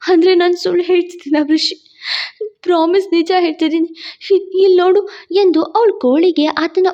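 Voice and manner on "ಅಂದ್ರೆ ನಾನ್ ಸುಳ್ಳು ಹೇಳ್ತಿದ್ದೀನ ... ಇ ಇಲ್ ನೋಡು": tearful, hurried pleading with halting breaks; grief-stricken. A narrator's reading. Disbelieved wife showing her wounds, pleading tearfully. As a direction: plead through tears, stumbling on words. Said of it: "ಅವಳಿಗೆ ದುಃಖ ಆವರಿಸ್ತು".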